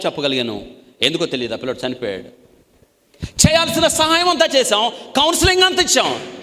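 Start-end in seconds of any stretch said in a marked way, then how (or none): 3.2-6.4 high, loud, slow lament; a full-force preacher's mourning; fiery preaching. Acted. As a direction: cry out that all was done. Preaching burst lamenting the loss.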